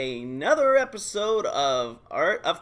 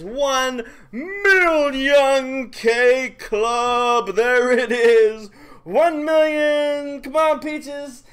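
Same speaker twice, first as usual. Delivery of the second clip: excited celebration; 7 semitones higher, 6 dB louder, much slower than usual. Real, not acted. Friend reaches one million power.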